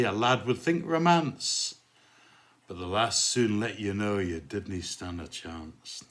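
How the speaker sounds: rhythmic poem recital in put-on Glasgow accent; amateur Glasgow accent for a dance-hall poem; bad Glasgow accent. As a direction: recite comic verse in broad mock Glaswegian. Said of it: "sorry about the appalling Glasgow accent".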